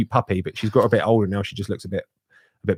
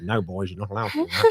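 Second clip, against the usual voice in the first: stern dad; 3 semitones lower than usual. Retold or imitated. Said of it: "old stern dad".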